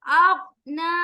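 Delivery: अगना chanted with a full, heavy ghain. Shown as a demonstration. Teacher shows a heavy letter, chanted. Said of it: "गैन मोटा पढ़ेंगे".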